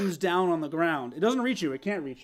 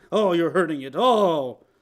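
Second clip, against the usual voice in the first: pained creature cry; 9 dB louder than usual. Acted. GM voices the creature in pain.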